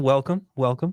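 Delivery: smooth announcer welcome; radio announcer voice. Real, not acted. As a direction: greet like a radio host. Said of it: "I went with a total radio announcer voice".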